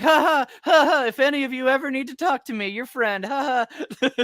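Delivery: high, loud, fake nervous laughter; forced fake laugh. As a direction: laugh it off, too high and too eager. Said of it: "this is her way of being like".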